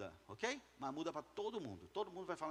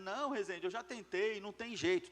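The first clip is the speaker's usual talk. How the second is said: higher-pitched imitation of an excuse; mock protest; 3 semitones higher, 3 dB louder than usual. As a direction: imitate someone giving up in protest. Mimics entrepreneurs' excuse.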